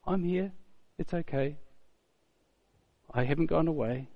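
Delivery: lightly acted soft reassurance; a touch of tender comfort; gentle reminder. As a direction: quietly soothe an old friend. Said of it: "she just needs to remind her".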